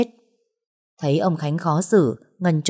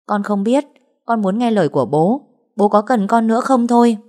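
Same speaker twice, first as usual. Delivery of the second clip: pleading, voice rising higher and louder; earnest pleading; 5 semitones higher, 6 dB louder than usual. Acted. Ánh pleading with Mr. Khánh whether he still wants her, rising plea. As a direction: beg your father not to abandon you. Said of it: "Nó lại thiết tha".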